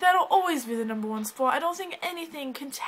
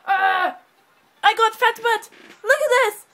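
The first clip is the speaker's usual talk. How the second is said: high, loud delighted squeal; excited squeal; 7 semitones higher, 9 dB louder than usual. Real, not acted. Girl squealing with delight at her cat. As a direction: gush over the fat cat in your arms.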